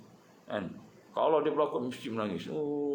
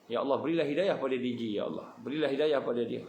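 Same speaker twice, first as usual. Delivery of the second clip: earnest prayer; faster than usual. Acted. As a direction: pray humbly for him. Prays again for D J. (doa yang khusyuk dan perlahan)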